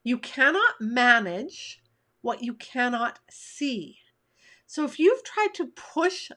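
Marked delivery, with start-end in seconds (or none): 0.0-4.0 slow, spaced-out "You cannot manage what you cannot see"; emphatic repeat. Shown as a demonstration. Coach repeating her key point to listeners, slow and emphatic. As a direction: give "cannot" full weight, phrase by phrase. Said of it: "Let me say that again".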